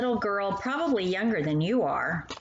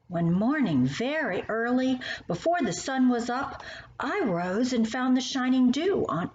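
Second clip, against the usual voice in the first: put-on lilting, sing-song reading of a children's poem; poem recitation; 3 semitones higher than usual. Reading My Shadow to a young child, sing-song recitation. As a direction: recite it like a bedtime verse.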